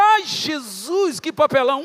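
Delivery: loud, high, drawn-out lament; mortified wail. Retold or imitated. Realising both pastors made fools of themselves, mortified wail. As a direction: wail in exaggerated embarrassment. Acted embarrassment at the call.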